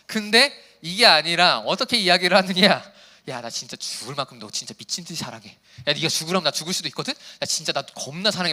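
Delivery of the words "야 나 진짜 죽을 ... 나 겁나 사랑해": passionate confession. Shown as a demonstration. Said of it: "막 이러면 좀 다르잖아".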